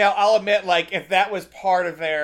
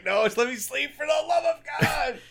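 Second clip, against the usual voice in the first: exasperated shout; 8 semitones higher than usual. Retold or imitated. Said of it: "Chris Farley's like".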